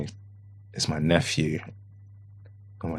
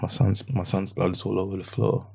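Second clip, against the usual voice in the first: hushed, breathless disbelief; stunned whisper; 7 dB quieter than usual. Retold or imitated. Father seeing his son's blood, whispering in shock. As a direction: whisper it as if you can't believe your eyes.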